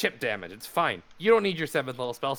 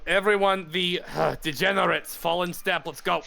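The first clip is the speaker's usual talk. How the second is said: shouting; 5 semitones higher than usual. Acted. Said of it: "I'll just shout out loud".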